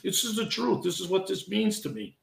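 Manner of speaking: holding back tears, voice gone soft; emotional, voice breaking softly; choked up. Real, not acted. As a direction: speak through real emotion, quietly. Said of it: "I'm getting a little emotional".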